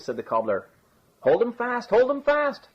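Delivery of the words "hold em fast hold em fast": high-pitched bawled alarm; bawling. A narrator's reading. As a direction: call out for the crowd to seize them. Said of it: "bawled the innkeeper".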